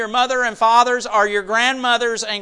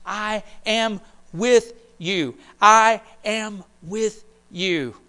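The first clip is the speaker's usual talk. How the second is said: slow tender promise; slower than usual. Acted.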